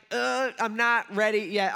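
mild, acted reluctance with a loud "uh"; mock dread, voice pushed up a little; groaning dread. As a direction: lightly groan your way into it. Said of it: "like that dread".

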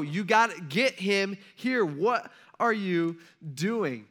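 slow, spaced-out words of disbelief; exasperated urging. Acted. Samuel telling Jesse to fetch his son, slowly exasperated. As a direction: spell it out slowly for him.

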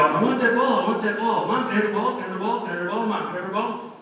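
put-on high, pleading child nagging for a ball; whining kid. Child in the store begging mom for a bouncy ball, whiny and high. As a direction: beg over and over like a kid in a shop.

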